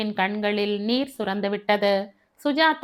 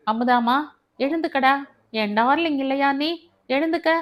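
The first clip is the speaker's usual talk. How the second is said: lightly acted, higher-pitched sweet-talk; a touch of affectionate pleading; tender coaxing; 5 semitones higher than usual. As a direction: coax a crying sweetheart to get up, pitch lifted. Groom coaxes crying fiancée to rise.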